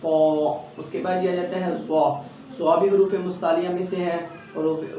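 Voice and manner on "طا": طا thick with a slight stretch; heavy طا. Shown as a demonstration. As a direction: round طا and lengthen a little. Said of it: "معمولی سا کھینچنا ہے".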